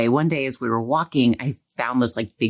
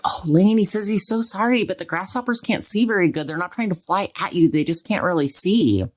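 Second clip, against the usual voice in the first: mild mock-magical reassurance told to her son; gentle make-believe message; 6 semitones higher than usual. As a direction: coax a scared little boy with a whimsical tale. Telling scared son grasshopper's message.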